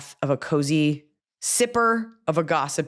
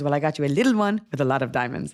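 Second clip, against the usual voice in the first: faster bad put-on Spanish accent; 3 semitones higher than usual. Telling friends about a gift and quoting the giver, in a bad Spanish accent. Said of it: "I'm making her sound Spanish".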